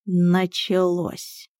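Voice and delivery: slow, sighing cat's groan; weary sigh. Acted. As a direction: sigh it out, tired of the same old thing. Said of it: "вздохнул Миун". (устало вздыхая)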